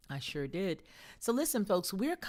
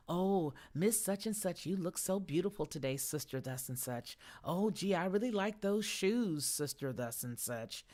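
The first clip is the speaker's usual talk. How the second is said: flattering tongue. Acted. Flatterer sweet-talking a church sister, mock flattering. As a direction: lay on a mildly hammed-up flattery. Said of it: "that flattering tongue".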